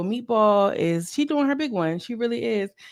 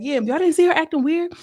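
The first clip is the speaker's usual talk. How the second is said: mimicking Seacon; 8 semitones higher, faster than usual. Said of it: "Seacon was like".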